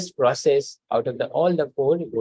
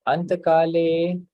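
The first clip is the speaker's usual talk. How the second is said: staccato; 5 semitones higher, slower than usual. Shown as a demonstration. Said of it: "Please repeat".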